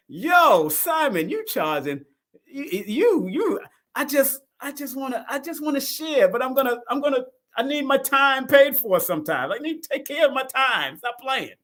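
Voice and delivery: half-playful imitation of a mentor wanting his time paid; Lloyd Strayhorn impression. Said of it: "Even Lloyd Strayhorn said".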